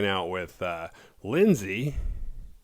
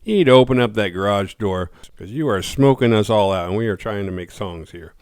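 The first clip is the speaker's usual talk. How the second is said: annoyed complaint; 7 dB louder than usual. Retold or imitated. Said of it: "Nash is like".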